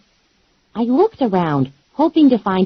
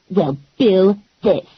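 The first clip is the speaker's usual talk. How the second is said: defiant taunt; slower than usual. Acted. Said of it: "Animal said".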